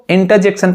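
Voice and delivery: इंटरजेक्शन as "inta-jection", no R; silent R. Shown as a demonstration. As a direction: drop the R in इंटरजेक्शन. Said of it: "यहाँ पर भी जो आर होता है". (इंटरजेक्शन में आर silent)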